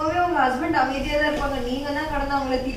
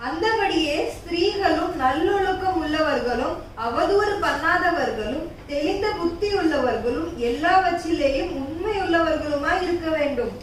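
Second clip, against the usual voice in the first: slow, solemn verse recital; scripture reading; slower than usual. Acted. Sister recites Bible verse to scold, slow and solemn. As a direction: read the verse with weight.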